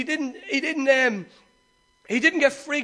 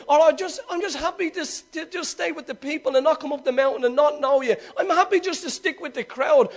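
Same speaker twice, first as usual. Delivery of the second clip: nonchalant; 3 semitones higher than usual. Acted. Preacher mimics one content to stay with the crowd, nonchalant. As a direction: play someone happy to settle for less. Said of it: "Not like nonchalant".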